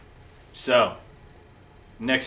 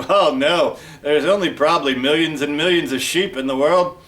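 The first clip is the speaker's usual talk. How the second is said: loud, raised mock agreement; sarcastic; 3 semitones higher, 6 dB louder than usual. Detective scoffs at finding one sheep, loudly sarcastic. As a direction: pile on the exaggeration with loud sarcasm. Detective mocks an easy search.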